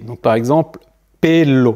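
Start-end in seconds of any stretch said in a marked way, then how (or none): 1.2-1.7 pelo with a clear é, pé-lo; Spanish E as é. Shown as a demonstration. Teacher showing Spanish E, pelo said pé-lo. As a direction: say pelo with a closed é. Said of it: "Le E va toujours se prononcer E".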